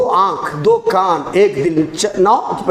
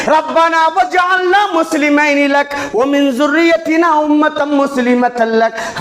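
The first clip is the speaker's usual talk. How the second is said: slow, raised Quranic prayer; slow recitation; 3 semitones higher, slower than usual. Acted. Preacher recites Abraham's prayer to the congregation, slow. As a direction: chant the prayer slowly.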